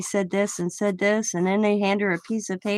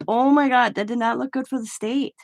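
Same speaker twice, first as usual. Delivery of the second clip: retold shock; 4 semitones higher than usual. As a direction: gasp it out like you cannot believe it. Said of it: "was like".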